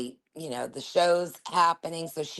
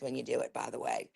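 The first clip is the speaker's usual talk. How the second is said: whispered aside; 6 semitones lower, 8 dB quieter than usual. Real, not acted. Aside to co-host.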